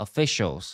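officials said as o-fi-shols, stress on fi; pronunciation demo. Shown as a demonstration. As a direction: model officials clearly for the class. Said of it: "ออกเสียง".

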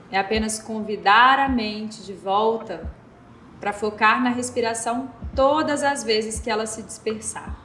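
calm, unhurried breathing guidance with long pauses; guided meditation. Real, not acted. Instructor guiding listeners through square breathing, calm meditation voice. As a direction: lead them gently through each breath, counting evenly.

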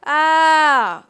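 "ah" swooping high then down. Shown as a demonstration. Teacher shows the textbook falling tone, arched loud "ah". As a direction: draw "ah" up high and let it fall. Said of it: "like, up and down".

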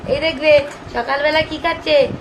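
put-on high, sing-song baby talk. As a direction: talk like you're showing a baby. (শিশুসুলভ আদুরে সুরে)

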